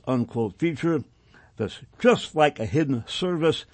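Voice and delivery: deliberate reading in measured phrases; formal document read-aloud. Acted. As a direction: read the report out firmly, phrase by phrase. Reads documents aloud on air.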